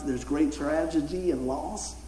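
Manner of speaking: talking around gum; words blurred by chewing gum. Real, not acted. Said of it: "Hard to say that with gum in your mouth".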